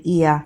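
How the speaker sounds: A opened into a slow "ear" glide; letter A said like EAR, drawn out; Jamaican A sound. Shown as a demonstration. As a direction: stretch A into a two-part "ear". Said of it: "the way how they pronounce the A sound".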